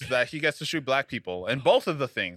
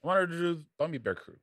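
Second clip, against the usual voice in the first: voice cracking; 4 semitones higher than usual. Real, not acted. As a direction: voice cracks mid-sentence. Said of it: "why'd your voice crack".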